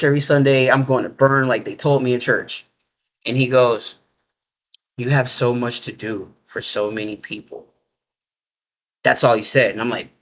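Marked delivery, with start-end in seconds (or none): 5.0-7.7 soft, lower and hushed, gently reassuring; softest voice. Retold or imitated. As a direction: speak it softly like a kind giant. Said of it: "This one's just in the softest voice".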